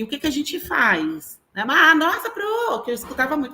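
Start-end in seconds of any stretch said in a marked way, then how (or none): 1.7-2.8 high, loud mock-pupil cry; exaggerated schoolchild amazement, pitched way up; pupils' exclamation. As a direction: imitate an astonished pupil calling teacher. Acts out pupils questioning the teacher.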